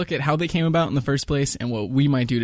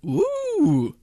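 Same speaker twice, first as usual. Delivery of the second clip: high, exaggerated ooh; mock excited ooh. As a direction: overdo a wowed reaction. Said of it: "my new attempt at a reaction".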